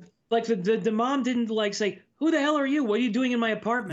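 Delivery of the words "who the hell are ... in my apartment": higher-pitched mock indignation; acting out an indignant challenge to an intruder; indignant confrontation. Mom confronts a stranger in her apartment, mock indignant.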